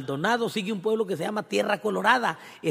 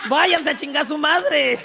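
mock angry dismissal; 9 semitones higher, 5 dB louder, slower than usual. Owner chasing sellers away.

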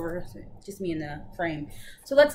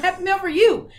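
much higher and louder, playful; singsong insisting; 11 semitones higher, 9 dB louder than usual. Retold or imitated. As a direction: sing it back to her like to a child. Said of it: "I was like".

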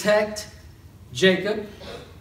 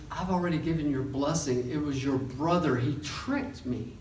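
softer, fading to a breathy whisper; hushed confession; 3 semitones lower, 7 dB quieter than usual. Retold or imitated. Isaac admitting to Esau he was tricked, hushed. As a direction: let it sink to a defeated whisper.

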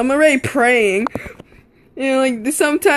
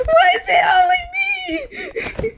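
very high, slow whining cry; mock wail; slower than usual. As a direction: wail it like a kid being picked on. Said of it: "I'm like".

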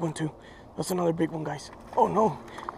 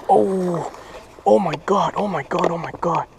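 loud excited oh my God; thrilled yelling at a big catch; shrieking jackpot winner; 7 dB louder than usual. Real, not acted.

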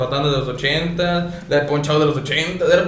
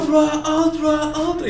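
higher, slow drawn-out Ultra calls; mock announcer shout; 10 semitones higher, much slower than usual. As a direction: stretch each Ultra like the game announcer.

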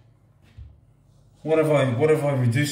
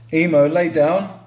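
calling the robot by name, slightly raised; voice command; 3 semitones higher than usual. Shown as a demonstration. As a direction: give the robot a clear command. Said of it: "You can say".

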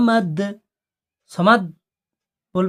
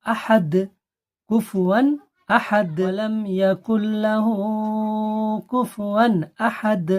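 chanted tajweed verses; Quran recitation; 3 semitones higher, slower than usual. Shown as a demonstration. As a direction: recite steadily with qalqala. (সুরে তিলাওয়াত)

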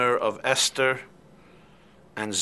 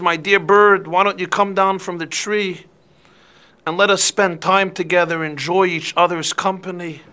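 coaxing, honeyed, a bit higher and louder; sweet-talking fox; 4 semitones higher, 4 dB louder than usual. Acted. Fox coaxing the bird down from the tree, sweetly persuasive. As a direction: lure the bird down the tree gently.

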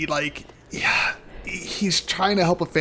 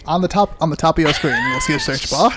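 loud announcer voice, pitch jumping up; mock announcer shout; 5 dB louder than usual. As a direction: call it out like a cheesy host. Mock announcer telling viewers.

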